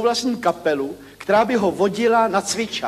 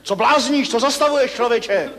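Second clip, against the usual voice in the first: retold yell; 3 semitones higher than usual. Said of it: "Sovák na něj řve".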